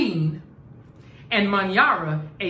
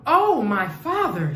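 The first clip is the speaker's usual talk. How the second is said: calling out; 3 semitones higher, 4 dB louder than usual. Acted. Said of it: "she called".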